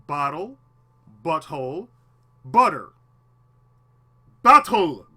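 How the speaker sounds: mock flubbed drill. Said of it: "I said".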